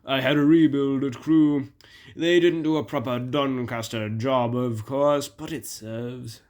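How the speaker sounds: lightly voiced engine, loud start dropping away; Flying Scotsman, genial engine.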